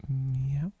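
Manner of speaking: a loud rising cat meow. Pretend. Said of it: "First you ask for an English meow".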